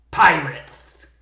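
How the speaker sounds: loud warning cry, falling; shouted alarm. Acted. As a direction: yell it across the deck. Crew shout within the story.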